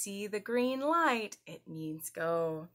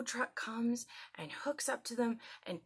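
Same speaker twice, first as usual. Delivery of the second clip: whisper; 3 semitones higher, 6 dB quieter than usual. Acted. Mid-sentence whisper.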